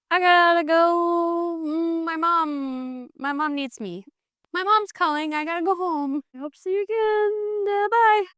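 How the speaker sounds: a mocking high voice for the runaway suitor; flustered Mister Hayward. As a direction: play him fumbling for a way out. Hayward's farewell note voiced.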